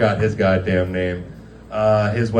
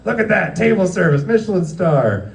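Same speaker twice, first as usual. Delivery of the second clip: mock praise; 8 semitones higher, 3 dB louder than usual. Teasing chefs about the fancy table service, mock praise. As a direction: gush sarcastically over the plating.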